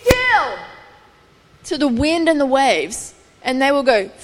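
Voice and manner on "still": calm the storm with a command; Jesus commanding. Retold or imitated. Jesus to the wind and waves, commanding. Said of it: "will say".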